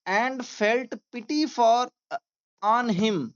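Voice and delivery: very slow, word by word dictation; slow classroom reading aloud. Shown as a demonstration. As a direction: read it out slowly for students to follow. Teacher dictating slowly.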